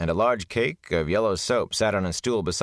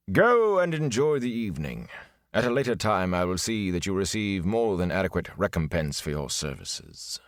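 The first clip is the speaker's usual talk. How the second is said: lofty gleeman waving him off; a lightly voiced grand old showman; grand dismissal. Tom dismisses the servant.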